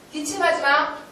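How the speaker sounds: high, sharp order, re-enacted; retold scolding shout. Teacher stopping a child's deliberate coughing, scolding shout. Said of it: "계속 소리 질렀어".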